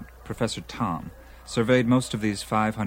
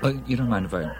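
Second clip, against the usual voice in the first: talking through a mouthful of food; words round a bite of food; mouth full; faster than usual. Real, not acted. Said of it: "talk with my mouth full".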